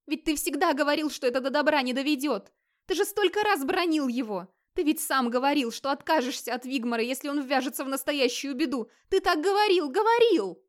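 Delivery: high, rising desperate insisting; insistent pleading. Acted. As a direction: fear turns into insistence. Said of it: "настаивала бедная женщина".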